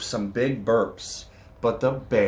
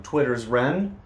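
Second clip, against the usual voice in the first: lively read-aloud with bouncy rhythm; storybook reading. A narrator's reading. Reading a picture book to children, lively storytelling. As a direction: read it to the kids with a sing-song lilt.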